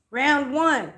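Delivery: playful ring-style announcement; imitating uncle's round call. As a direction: call it out like a bout. Voices laughing uncle's announcement.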